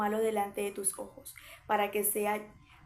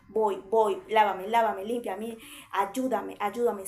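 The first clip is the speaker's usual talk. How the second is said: louder begging cry to God; urgent pleading; 5 dB louder, slower than usual. Retold or imitated. Penitent begging God for cleansing, loud and urgent. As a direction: plead hard, asking to be washed.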